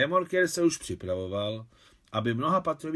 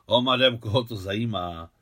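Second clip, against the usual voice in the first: sarcastic; 4 dB louder than usual. Acted. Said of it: "ušklíbil se sarkasticky".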